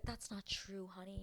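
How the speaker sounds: very soft mock reassurance; imitating soothing partner. Man defending his crying girl, softly soothing imitation. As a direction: hush it like comforting a sweetheart. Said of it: "he's defending his girl".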